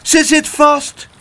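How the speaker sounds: high, slow distressed wail; drawn-out, high-pitched lament. A narrator's reading. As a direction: wail it out in alarm. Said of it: "jammerde Spijterbijt".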